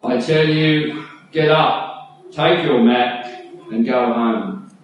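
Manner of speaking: slow, firm command to rise; Jesus commanding. Acted. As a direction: tell him to get up, with authority. Jesus commands the paralysed man.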